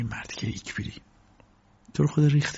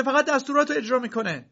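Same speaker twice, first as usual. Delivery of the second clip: woman's shriek; faster than usual. A narrator's reading. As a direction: scream at him to let go. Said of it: "زن داد کشید". (فریاد زن، بسیار زیر و بلند)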